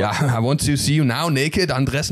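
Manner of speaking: put-on slow German-accented come-on; mock German seducer accent; stiffly flirt in a slow German accent. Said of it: "but Germans were like".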